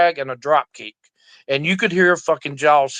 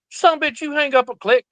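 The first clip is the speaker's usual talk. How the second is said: much higher pitched, playful indignant outburst; mock outraged yelling; 9 semitones higher than usual. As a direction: act fake offended at the friend. Calls back after being hung up.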